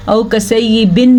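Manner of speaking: औ कसैयिबिन with y slipping to hamza; wrong reading demo. Shown as a demonstration. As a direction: say औ कसैयिबिन without a clear y. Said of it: "नहीं पढ़ना".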